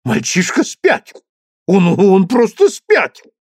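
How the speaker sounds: громкий старик в негодовании; негодующий старый герцог; возмущённый герцог. A narrator's reading. (возмущённо, громко)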